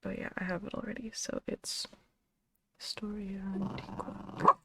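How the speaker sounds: unvoiced whisper, a bit quick. Real, not acted. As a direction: whisper it so nobody stirs. Whispers while cat nearby.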